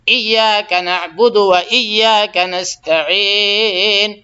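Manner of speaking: slow, drawn-out chanted recitation; Quran recitation. Shown as a demonstration. Teacher reciting Fatiha verse for students, slow chant. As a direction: recite each word slowly and clearly.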